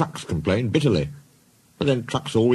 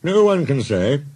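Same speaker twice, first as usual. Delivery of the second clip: mildly hammed grumble, higher than narration; grumbling; 5 semitones higher, 4 dB louder than usual. Henry grumbling about hard work, mild protest. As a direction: grumble as a put-upon engine. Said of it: "grumbled Henry".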